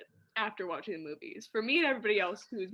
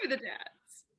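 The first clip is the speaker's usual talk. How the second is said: unvoiced, doubtful whisper; whispered echo; 2 semitones higher, 4 dB quieter, much slower than usual. Real, not acted. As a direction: echo it under your breath.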